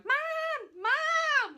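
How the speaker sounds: high, loud meowing call of Mom; cat calling mom. Retold or imitated. Daughter voicing her cat calling for her, high meowing shout. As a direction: yowl it like a cat calling from upstairs. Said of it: "hear him upstairs ... going".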